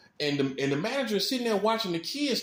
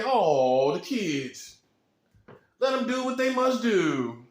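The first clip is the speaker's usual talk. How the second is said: soft manager; 4 dB louder, slower than usual. Acted. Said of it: "what you gonna say?".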